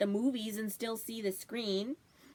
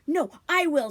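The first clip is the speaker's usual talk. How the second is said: loud competing shout, much louder; squabbling shout; 5 semitones higher, 9 dB louder than usual. Acted. Toby shouting over Pete to claim the bundle, loud. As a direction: outshout the brother.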